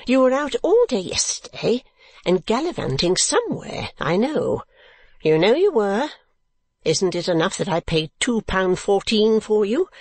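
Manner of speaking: high, indignant tirade; screamed scolding. A narrator's reading. Woman reproaching her gallivanting husband, high angry tirade. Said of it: "screamed the woman".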